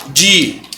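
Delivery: Di-a-man-te clipped into four syllables; syllables split apart. Shown as a demonstration. Teacher separates Di-a-man-te syllable by syllable for students. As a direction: tap out each syllable of Di-a-man-te. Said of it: "Então vamos lá".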